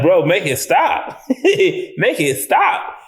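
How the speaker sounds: drawn-out, amused plea for mercy; mock pleading. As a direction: beg slowly, half laughing. Reacting to disturbing movie scene.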